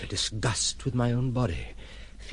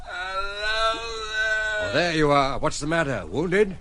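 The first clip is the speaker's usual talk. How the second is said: loud, high call into the dark; 10 semitones higher, 4 dB louder, much slower than usual. Acted. Man hailing survivors under the jetty, loud. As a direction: call out to the stranded men. Calls to boat arrivals.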